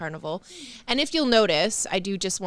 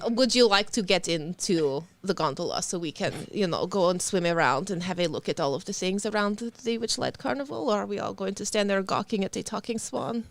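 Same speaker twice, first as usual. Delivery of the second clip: put-on Russian accent. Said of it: "she says".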